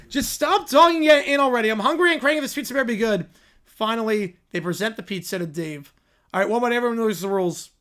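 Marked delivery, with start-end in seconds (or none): 0.1-3.3 put-on higher and louder, grumpy kid whine; a hungry child snapping at the others; cranky kid.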